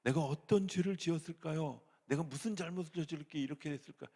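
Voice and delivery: loud, high pleading cry to God; desperate loud questioning; anguished outcry. Retold or imitated. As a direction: cry out why me. Bitter questioning prayer to God.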